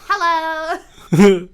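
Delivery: squeaky exaggerated cartoon hello; cartoon character voice. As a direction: sing it like a cartoon sidekick. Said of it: "You sound like a cartoon character".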